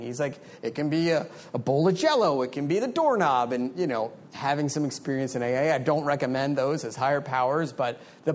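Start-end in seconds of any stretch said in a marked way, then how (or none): 0.6-3.5 mock-British voice, pitched a little up; lightly faked British accent; terrible British accent. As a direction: badly imitate a British speaker. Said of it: "that's probably a terrible British accent".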